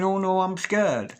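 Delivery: high, slow, hammed-up fearful wail; mock scared. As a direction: imitate someone timid, drawing it out. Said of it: "And you are going".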